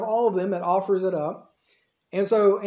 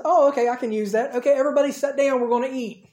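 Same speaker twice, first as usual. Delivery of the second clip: higher, quick call to everyone; breezy announcing; 5 semitones higher, 3 dB louder than usual. Retold or imitated. Jesus telling the hungry crowd to sit, breezy announcing. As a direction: announce it lightly, pitched up.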